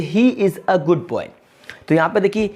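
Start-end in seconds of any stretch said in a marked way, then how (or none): 0.0-1.3 slow example. Shown as a demonstration. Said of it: "जैसे कि".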